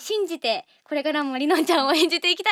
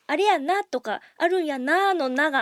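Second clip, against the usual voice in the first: a hint of Kansai-ben, half-quoted; imitating Kansai dialect. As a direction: lightly echo Rinon's Kansai lines. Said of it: "関西弁っていうね".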